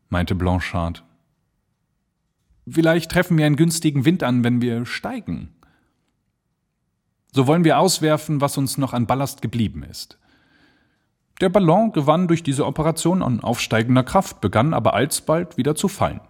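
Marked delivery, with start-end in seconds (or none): 2.7-10.2 höher und schneller, drängender Luftschiffer; urgent balloonist. Acted. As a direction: treibt zur Eile, etwas hastig. Character urges dropping ballast. (Blanchard zu Jeffries, drängend und schneller)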